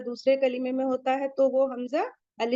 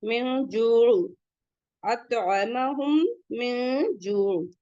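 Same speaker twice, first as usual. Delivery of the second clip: slow chanted recitation with held vowels; slow melodic tajweed recitation; Quran recitation; much slower than usual. Shown as a demonstration. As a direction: recite slowly, holding जू for two counts. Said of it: "इसे भी टू count करिए".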